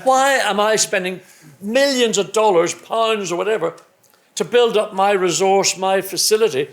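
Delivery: imitating a boss fuming down the phone; mock boss rant. Boss Ron ranting about rival seeing his factory, mock indignation.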